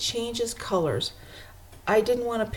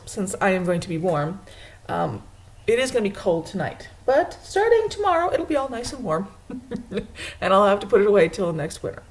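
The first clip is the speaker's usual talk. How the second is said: ordinary talk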